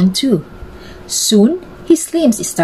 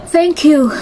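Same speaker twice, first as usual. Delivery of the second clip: smiling thanks; 8 semitones higher than usual. A narrator's reading. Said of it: "he smiled".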